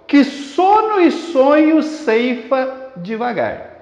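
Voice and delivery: slow, deliberate verse reading; alliteration demonstration. Shown as a demonstration. Teacher giving an example of alliteration, slow and deliberate. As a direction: read it slowly so every S sound shows. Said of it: "Observe esse exemplo aqui".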